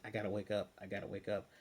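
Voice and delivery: imitating a low, soft sleep mumble; lightly acted sleep talk, dropped in pitch and volume. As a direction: say it softly like someone talking while asleep. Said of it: "he's talking in his sleep".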